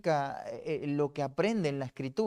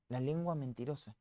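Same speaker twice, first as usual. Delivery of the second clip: soft repeat; 7 dB quieter than usual. Shown as a demonstration.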